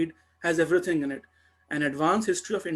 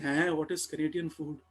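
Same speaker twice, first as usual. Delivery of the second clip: softer, mock-puzzled musing; puzzled pondering; 6 dB quieter than usual. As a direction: imitate colleagues quietly thinking it over. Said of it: "They were thinking".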